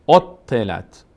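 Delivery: اوتلت with a held double t, said at normal speed; doubled t. Shown as a demonstration. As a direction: sound both t's in اوتلت. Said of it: "یک بار با کسره خودش ت". («اوتلت» با تشدید روی ت، با سرعت عادی)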